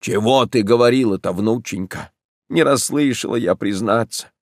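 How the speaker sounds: ordinary delivery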